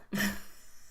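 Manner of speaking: short breathy villain cackle; a soft wicked little laugh; evil laugh. Real, not acted. To the chat after saying she's gone, a breathy evil laugh. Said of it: "sounds like an evil laugh".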